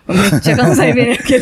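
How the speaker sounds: laying on the Kansai dialect on purpose; thick Kansai accent. Pretend. Teasing the Tokyo-fied guest, hammed-up Kansai accent. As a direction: play up the Kansai accent as a joke. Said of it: "ちょっと濃いめに持ってきたな".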